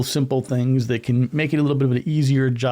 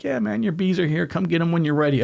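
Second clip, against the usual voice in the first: mock-relaxed postal worker, pitched up; imitating a laid-back caller; 4 semitones higher than usual. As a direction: play the chill guy who's in no hurry, mildly. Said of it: "they're all calm and chill".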